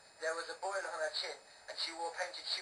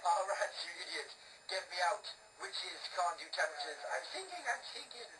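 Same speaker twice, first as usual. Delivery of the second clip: panicked witch; 3 semitones higher than usual. Acted. Witch trapped in cauldron.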